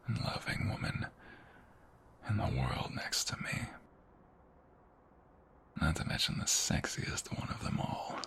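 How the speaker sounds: slow, soft seductive whisper; intimate whisper.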